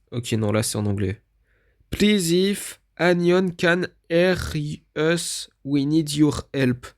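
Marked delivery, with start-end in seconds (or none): 1.9-6.9 bad English accent. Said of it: "mon accent anglais est vraiment pourri".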